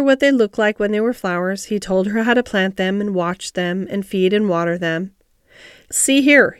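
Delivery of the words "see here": abrupt, louder and higher; a sudden call for attention. A narrator's reading. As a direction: break in suddenly. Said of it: "he said suddenly".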